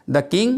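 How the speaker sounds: "The king" set apart slowly, as before a comma; pause after king. Shown as a demonstration. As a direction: hold "The king" as its own phrase. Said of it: "उसके बाद comma लगा दिया है". ("The king" के बाद ठहराव)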